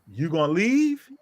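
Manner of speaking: measured, emphatic retold warning; firm ultimatum. Father ordering the girl's mother off his property, firm ultimatum. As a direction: lay down the law, phrase by phrase. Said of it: "exactly where I said it to her".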